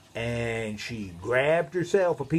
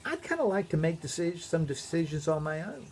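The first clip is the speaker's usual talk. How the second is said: Eve voice; 6 semitones higher than usual. Acted. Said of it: "She was thinking".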